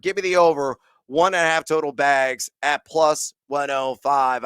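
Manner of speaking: winded after a long fast read; out of breath. Real, not acted. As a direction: talk while short of breath. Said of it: "I'm out of breath".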